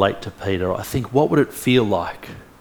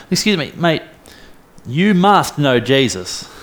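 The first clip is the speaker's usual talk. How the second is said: insistent accusation; 4 semitones higher than usual. Retold or imitated. Crowd confronting Peter in acted story.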